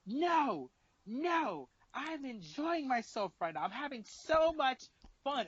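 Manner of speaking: put-on high, drawn-out drunken whine; mock drunk crying. Drunk girl refusing to leave the party, mock tearful whine. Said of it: "as she's crying about getting dragged".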